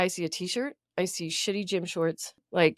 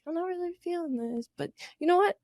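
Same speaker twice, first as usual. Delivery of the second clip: mock self pep talk; 10 semitones higher than usual. Pep-talking herself before the date.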